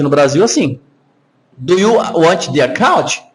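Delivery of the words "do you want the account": "Do you want the account" slowly, each word as written; Brazilian school reading. Shown as a demonstration. Teacher warns Americans will laugh, Brazilian school reading. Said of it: "essa é a pronúncia nossa".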